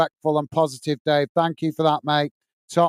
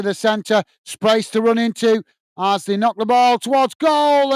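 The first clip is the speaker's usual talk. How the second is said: live play-by-play. Real, not acted. Commentator calling an Ipswich chance for stream viewers, live play-by-play. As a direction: call the move live, lifting on the save, then drawing out the end.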